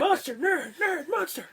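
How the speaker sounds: laughing back-and-forth. Retold or imitated. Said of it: "And then they're like".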